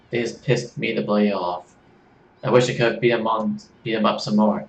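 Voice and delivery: put-on a drifting Australian accent that slips toward British; Australian accent, horribly done; attempted Australian accent. Kit introducing herself to Serge in a bad Australian accent. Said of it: "I thought you were supposed to be Australian".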